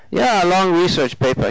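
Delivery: German man answering keenly; German accent. A narrator's reading. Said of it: "three months over from Germany".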